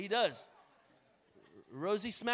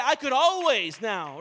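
bold cry; 3 semitones higher, 12 dB louder, slower than usual. Retold or imitated. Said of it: "He said".

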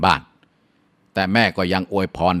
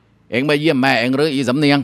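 calling out; 7 semitones higher, 4 dB louder than usual. Acted. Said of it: "เห็นก็ทักว่า". (เพื่อนบ้านทักทายสำเนียง เรียกเสียงสูงช้าๆ)

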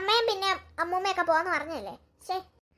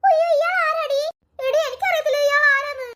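frightened; 5 semitones higher, 5 dB louder than usual. Acted. Girls frightened by a stranger.

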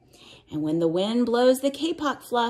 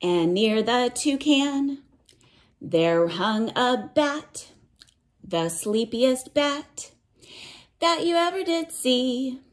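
storybook reading; 3 semitones higher than usual. A narrator's reading. Teacher reading a rainforest picture book to children, lilting read-aloud. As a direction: chant the cumulative verse to little listeners.

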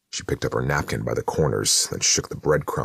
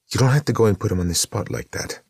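higher, lightly scolding sister; Maria, reproachful; 8 semitones higher, 4 dB louder, faster than usual. Acted. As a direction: chide him, embarrassed for the host. Maria scolding her brother.

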